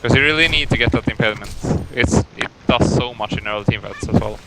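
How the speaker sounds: talking with a pen in his mouth. Real, not acted. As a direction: speak around a pen held in the teeth. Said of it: "you sound a little weird".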